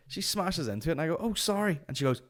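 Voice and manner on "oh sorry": high-pitched polite sorry; exaggeratedly nice apology; over-nice apology. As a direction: apologise lightly, voice lifted high. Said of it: "overcompensate with the nice".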